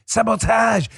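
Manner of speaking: mock French pronunciation, last syllable drawn out; French accent. Host repeating his word for effect, French accent. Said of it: "He is in a French accent".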